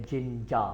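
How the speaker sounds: जिंजा ending on an open a; जिंजा said the British way; no final r. Shown as a demonstration. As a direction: drop the r at the end of जिंजा. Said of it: "ये जिंजा है".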